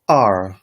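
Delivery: R said with a sharp falling tone. Shown as a demonstration. Teacher demonstrating the falling fourth tone. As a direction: drop the pitch hard on R. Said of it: "is a falling tone".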